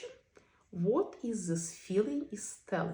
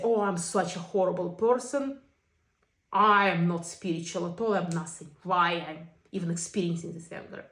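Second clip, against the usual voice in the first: mock self-blame; 3 dB louder than usual. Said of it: "Or I'll say".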